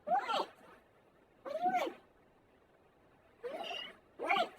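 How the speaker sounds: high, soft questions to the cat; pet voice. Real, not acted. Talking to the meowing cat.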